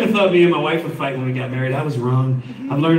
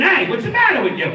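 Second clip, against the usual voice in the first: mock Canadian scold; 10 semitones higher than usual. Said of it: "ask a question".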